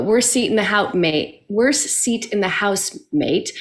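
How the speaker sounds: lightly imitated New Zealand accent. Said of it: "say it with a New Zealand accent".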